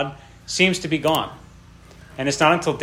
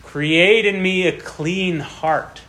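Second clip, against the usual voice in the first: prayerful plea; 3 semitones higher, much slower than usual. Retold or imitated. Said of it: "and he says".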